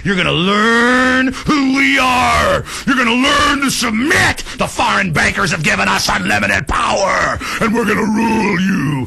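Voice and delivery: snarling thug cop shouting threats; mock tyrant cop voice. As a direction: play the cop as a sneering bully. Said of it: "cops voiced as tyrants".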